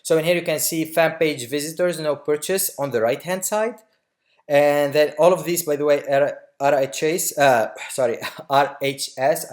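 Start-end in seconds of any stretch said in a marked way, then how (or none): 4.5-9.5 breathless, gasping between phrases; winded, catching breath while talking. Real, not acted. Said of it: "I'm running out of breath here".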